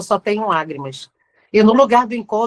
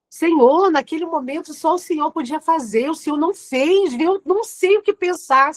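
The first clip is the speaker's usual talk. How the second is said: much higher, pleading complaint to God; reenacted complaint to God; 4 semitones higher than usual. Preacher reenacting her tense prayer to God, higher and pleading. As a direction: let the frustration climb as you question Him. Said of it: "conversas tensas com Deus".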